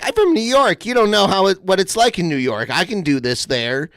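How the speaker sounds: high mocking take on an entitled woman; mocking impression. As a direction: parody her as whiny and self-righteous. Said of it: "She does the, like".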